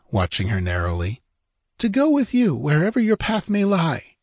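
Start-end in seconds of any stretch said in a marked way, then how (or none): 1.8-4.2 high, fervent heroine voice; woman's raised, pleading cry; ardent cry. A narrator's reading. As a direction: declare your devotion. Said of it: "she cried".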